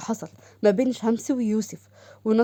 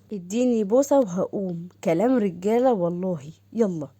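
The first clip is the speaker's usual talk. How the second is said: teasing lover; 2 semitones lower than usual. Acted. Saqr teasing in lower voice.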